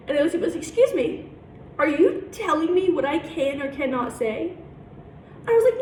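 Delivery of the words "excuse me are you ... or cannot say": mock-indignant, high-pitched "excuse me"; retold indignation. Student challenging her teacher's remark, mildly indignant. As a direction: act out taken-aback offence, starting high.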